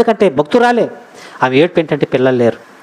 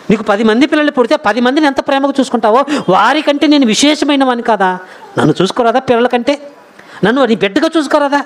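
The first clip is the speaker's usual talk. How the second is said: comforting husband; 6 semitones higher than usual. Retold or imitated. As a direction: reassure her with mounting earnest appeal. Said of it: "ఎంతగా ఆదరిస్తున్నాడో". (ఆదరంగా బతిమాలే భర్త అనుకరణ)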